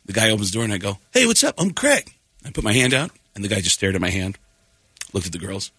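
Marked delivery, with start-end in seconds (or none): 1.1-2.1 high, bright-eyed friendly hello; eager greeting. Retold or imitated. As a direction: greet him like an eager new buddy. Greeting a rude host, eager.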